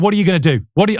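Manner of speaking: light put-on Australian accent, challenging; a hint of a defiant Aussie boss; mock Australian accent. CEO challenging the salesman, in a mock Australian accent. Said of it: "I don't know if I can keep doing the accent".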